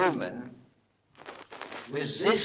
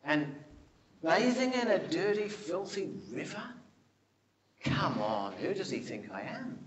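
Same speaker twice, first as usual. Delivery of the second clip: grumpy Naaman; 2 semitones lower than usual. Retold or imitated. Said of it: "Naaman got really grumpy".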